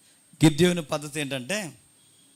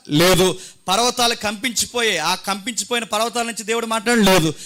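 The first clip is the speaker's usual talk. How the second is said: insistent pulpit questions and answers; forceful preaching; 6 semitones higher, 7 dB louder than usual. Real, not acted. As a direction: press the point on the congregation. (గట్టిగా నొక్కి చెప్పే ప్రసంగం)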